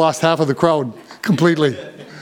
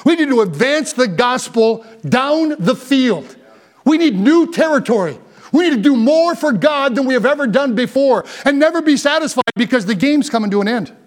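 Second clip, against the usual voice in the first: rallying preaching; 5 semitones higher than usual. Real, not acted. Rallying the church.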